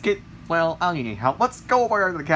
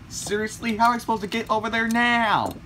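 exasperated whine; 5 semitones higher than usual. Acted. Complaint after another crash.

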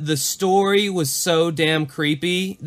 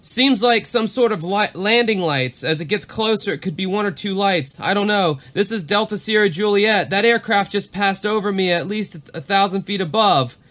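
uneasy pilot radioing the ground, higher; worried pilot; 5 semitones higher than usual. Retold or imitated. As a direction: read the pilot's call with rising unease.

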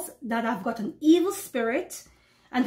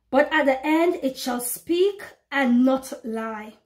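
scripture reading; slower than usual. Acted. Reads verse.

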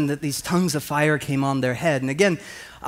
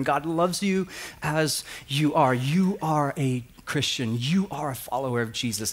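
reassuring pastor; 4 dB quieter than usual. Retold or imitated. Youth pastor reassuring the boy.

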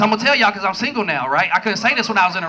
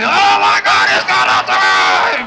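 mock eager shout; 5 dB louder, much slower than usual. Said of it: "You gonna get that pussy".

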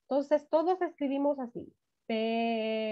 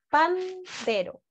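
syllables stretched out, higher; slow dictation; 4 semitones higher, much slower than usual. Shown as a demonstration. Teacher repeating the word for the class, drawn out. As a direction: say it slowly so they can write it. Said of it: "¿Pueden escribir pandero?".

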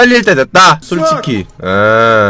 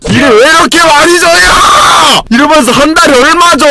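much higher, loud complaining yell; exasperated shout; 12 semitones higher, 3 dB louder than usual. Real, not acted. Overworked intern yelling at the boss, exasperated shout. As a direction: yell it at the boss piling on work. Swamped with tasks by bosses.

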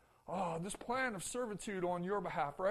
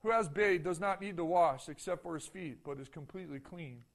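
measured, lower scripture reading voice; 3 semitones lower than usual. Acted. Pastor reading John to the congregation, solemn scripture reading. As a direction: read the Gospel passage with calm solemnity.

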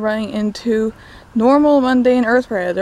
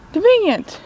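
sarcastic; 10 semitones higher than usual. Acted. Sarcastic comment on the plot.

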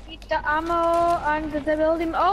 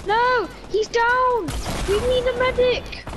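man down shout; 5 semitones higher than usual. Real, not acted. Teammate down, calling out.

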